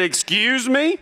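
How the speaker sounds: high, rising disbelief; taken aback. Retold or imitated. Interviewer to cocky applicant, taken aback. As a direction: question it in a high, affronted voice.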